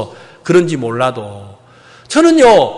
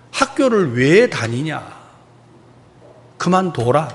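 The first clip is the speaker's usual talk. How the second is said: toned-down scolding; 5 semitones lower, 5 dB quieter than usual. Retold or imitated. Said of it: "내가 이렇게 좋은 말로 안 했겠죠?".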